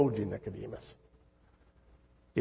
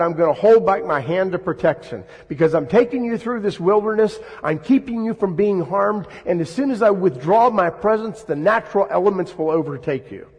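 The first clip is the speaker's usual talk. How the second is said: a raised, lightly voiced God warning his people; 5 semitones higher, 5 dB louder than usual. Preacher voicing God's warning to grumbling Israel, raised and stern. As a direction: proclaim it higher and louder, as God's stern word.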